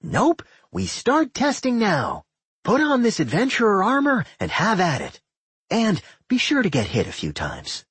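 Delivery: high, bossy, eager voice; gleeful dungeon character. A narrator's reading. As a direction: give orders with high-pitched glee. Doc gleefully orders testing.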